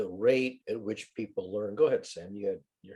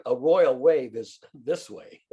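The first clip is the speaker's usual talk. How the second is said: regal, refined; 3 dB louder, slower than usual. Shown as a demonstration. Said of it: "this is sophisticated".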